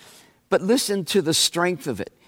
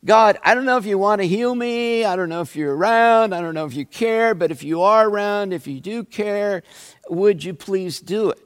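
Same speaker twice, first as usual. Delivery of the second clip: doubting prayer; 3 semitones higher, faster than usual. Retold or imitated. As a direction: rush through the doubts like a hesitant believer praying. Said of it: "asked God that question".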